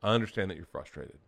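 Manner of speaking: quietly measured, acted calm; composed after a breath. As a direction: reassure a child with deliberate restraint. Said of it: "I took a deep breath".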